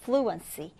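"fluency" stressed on its first syllable, FLU-en-cy. Shown as a demonstration. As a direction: hit the start of "fluency". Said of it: "첫 음절에 강세를 두고".

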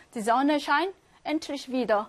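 careful slow dictation pace; slow German read-aloud. Shown as a demonstration. Teacher reading a listening sentence to students, very slow. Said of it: "발음 문제 한번 하겠습니다".

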